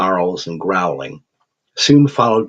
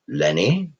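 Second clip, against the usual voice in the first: puzzled echo. Acted. Professor repeats the nickname back.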